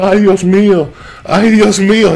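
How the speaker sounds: loud pained wail in Spanish, uncle with a broken leg; pained cry. Retold or imitated. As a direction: cry out in pain. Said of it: "He's down there".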